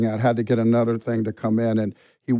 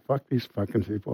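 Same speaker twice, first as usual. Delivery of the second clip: retold quiet talk; 2 semitones lower, 6 dB quieter than usual. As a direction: recount it under your voice, quietly. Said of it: "I was talking really quiet".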